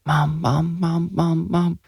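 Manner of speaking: put-on high, hushed, rapid child voice; urgent repetition. A narrator's reading. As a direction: call her over and over fast. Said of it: "Jonah repeated rapidly".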